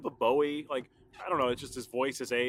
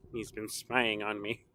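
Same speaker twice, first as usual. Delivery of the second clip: low, slow and softer spooky repeat; spooky mock voice; 5 semitones lower, 4 dB quieter, slower than usual. Vlogger repeating his joke in a low, slow spooky voice. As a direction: creep it out like a horror host.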